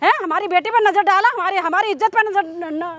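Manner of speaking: outraged mother's tirade; scornful, indignant scolding; angry scolding. Acted. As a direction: berate him with indignant questions. Acted mother berates servant.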